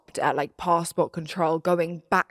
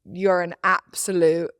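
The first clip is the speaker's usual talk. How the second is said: laughing insult. Retold or imitated. Telling boyfriend off at passport control, laughing. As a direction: insult half-swallowed by laughter. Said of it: "I turned to him and I said".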